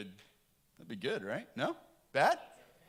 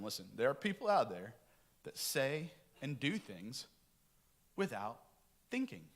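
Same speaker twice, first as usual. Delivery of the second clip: gentle fatherly advice. Retold or imitated. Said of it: "I say to them".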